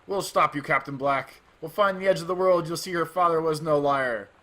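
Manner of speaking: loud, rousing defiant shout; rally against the pirate; defiant yell. Acted. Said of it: "The first mate yelled out".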